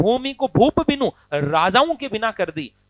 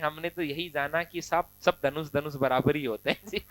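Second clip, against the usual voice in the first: mock innocent reply; 6 semitones lower, 7 dB quieter than usual. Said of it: "Lakhan हंस करके कहते हैं".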